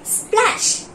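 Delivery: whispered word. Shown as a demonstration. Teacher models the word for pupils, whispered. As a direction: breathe the word "Splash." out as a whisper. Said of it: "Read along with me".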